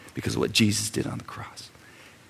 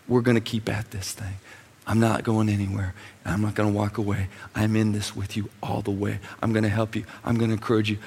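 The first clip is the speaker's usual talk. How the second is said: tender heavenly father. Retold or imitated. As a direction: gently assure a struggling child. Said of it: "listen to him tell you".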